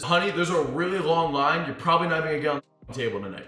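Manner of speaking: brisk, playful brush-off; joking tease. Retold or imitated. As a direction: toss it off quickly as a joke. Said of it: "It was clearly a joke".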